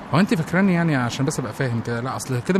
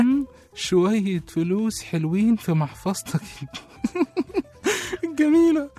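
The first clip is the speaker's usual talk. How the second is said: mocking echo; 6 semitones higher, slower than usual. Mocking her words with laughter.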